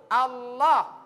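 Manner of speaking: Allah with the tongue kept in; correct Allah. Shown as a demonstration. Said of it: "Tempel di langit-langit". (Allah dengan lidah tidak keluar)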